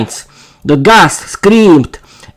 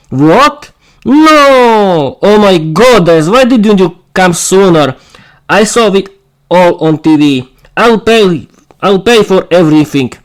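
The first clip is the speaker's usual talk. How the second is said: shocked; 4 semitones higher than usual. Acted. Vera shocked at news.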